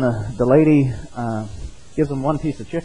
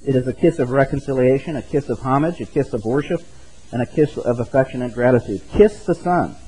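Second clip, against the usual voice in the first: put-on lightly raised old-style preaching read aloud; sermon reading. Pastor reads Spurgeon's appeal to the congregation, a hint of old-style preaching.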